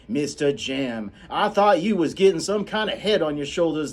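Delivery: high, loud scolding housekeeper; scolding Calpurnia. Acted. Calpurnia scolding the children on the way home. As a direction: tear into the children. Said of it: "you do different voices for every character".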